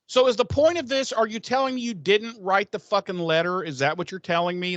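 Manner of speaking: indignant interrogation. Acted. Watcher confronting his colleague over a letter, indignant. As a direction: press him like you've caught him out.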